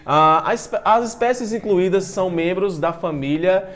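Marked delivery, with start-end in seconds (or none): none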